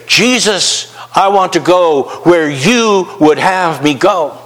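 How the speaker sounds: slow, sincere surrender; humble prayer. Pretend. A believer praying to Jesus mid-flight, slow and sincere. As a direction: give yourself over, earnestly. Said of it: "talk to the cockpit and say".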